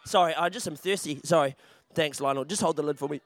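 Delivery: quiet aside. Real, not acted. Muttered aside while drinking.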